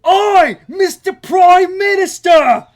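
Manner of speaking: high, very loud drawn-out holler; calling out. Retold or imitated. Australian hailing Prime Minister floating in lake, long shout. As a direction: bellow across water, mock Aussie.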